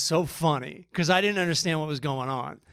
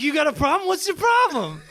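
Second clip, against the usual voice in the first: high-pitched mock shout; retold coach's confrontational shout; 9 semitones higher than usual. Swim coach to an eight-year-old, mock confrontational shout. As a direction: challenge the kid, raised and higher. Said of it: "You're screaming at us".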